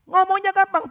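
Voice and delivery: hammered-home ngomongnya gampang; loud emphatic. Acted. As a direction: punch ngomongnya gampang out to the crowd. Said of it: "preacher repeats the line".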